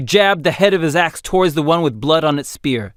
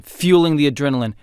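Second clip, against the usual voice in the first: ordinary delivery, nothing marked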